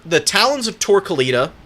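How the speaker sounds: words pushed through a burp; talking while burping. Real, not acted. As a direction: burp slips out mid-phrase. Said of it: "Excuse me for the burp".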